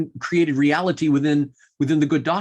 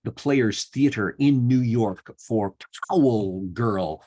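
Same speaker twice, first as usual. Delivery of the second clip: measured, lower-pitched show plug; announcer sign-off; 4 semitones lower than usual. Acted. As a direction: plug the show to listeners, stretching the title. Host reads closing plug for show.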